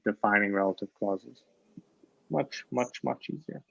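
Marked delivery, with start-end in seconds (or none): 2.3-3.6 soft echo. Shown as a demonstration. Teacher repeats the point softly.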